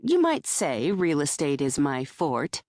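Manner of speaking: forte said as fort, second syllable dropped; forte as one syllable. Acted. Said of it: "dropping the second syllable".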